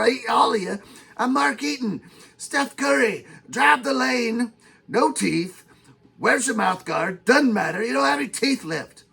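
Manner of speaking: a touch of a mock-angry boast; lightly voiced trash talk to Steph Curry; Mark Eaton trash talk. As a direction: taunt like an old-school big man. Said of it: "you got a little out of control there".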